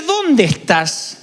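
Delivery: slow gentle call. Pretend.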